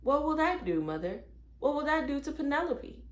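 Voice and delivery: put-on high, eager little-girl questions; bouncing with curiosity; girl asking eagerly while bouncing up and down; excited child. A narrator's reading. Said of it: "Mary bounced up and down and excitedly".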